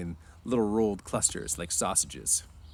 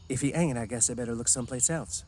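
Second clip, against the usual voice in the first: mild playful; 4 semitones higher than usual. Acted. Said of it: "she said playfully".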